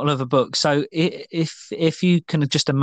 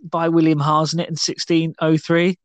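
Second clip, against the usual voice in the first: put-on Jamaican accent; 4 semitones higher than usual. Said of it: "preferred accent for me to say this title".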